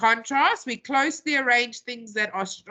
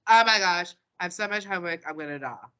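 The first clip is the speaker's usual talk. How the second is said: put-on dramatic teenager; 3 semitones lower, faster than usual. Teacher mimicking teenagers over homework, mock-dramatic teen. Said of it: "teenagers love it".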